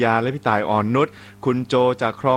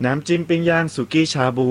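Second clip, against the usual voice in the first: DJ leading the sponsor slogan line by line; upbeat ad read of a sauce slogan; radio ad read. Shown as a demonstration. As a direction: say it like a jingle for the caller to repeat. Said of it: "ให้ผมพูดนำนะ".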